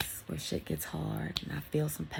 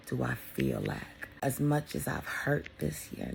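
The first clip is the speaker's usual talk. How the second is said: slow sincere reflection; 3 dB quieter, slower than usual. Real, not acted. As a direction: let each word sink, deeply sincere. Reflecting on loss this year.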